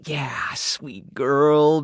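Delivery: very slow, drawn-out cooing to an animal; doting pet talk. Acted. Rescuer fussing over an old pet, slow doting coo. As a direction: coo it slowly to your pet.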